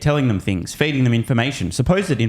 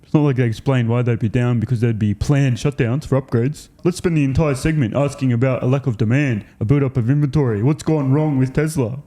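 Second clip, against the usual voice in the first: mocking dumb anchor. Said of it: "They sound like morons".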